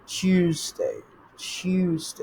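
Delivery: "Tuesday" with a buzzing z in the middle. Shown as a demonstration. Teacher shows Z in place of S, "Tuesday" as "tyooz-day". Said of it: "এস এর জায়গায় we pronounce Z".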